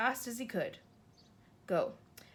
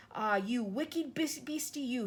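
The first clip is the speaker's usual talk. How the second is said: scolding the beast; 3 semitones higher, slower than usual. Acted. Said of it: "he cried".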